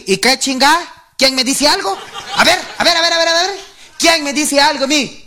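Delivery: high-pitched macho bluster; blustering challenge. Acted. Man bursting into his house daring anyone to talk back, blustering. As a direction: dare anyone to answer back.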